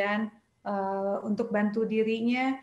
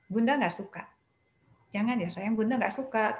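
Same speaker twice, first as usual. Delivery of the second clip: calm firm. Shown as a demonstration. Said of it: "cukup mengatakan".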